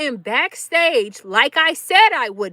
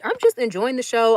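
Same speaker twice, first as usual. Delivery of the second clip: normal talking voice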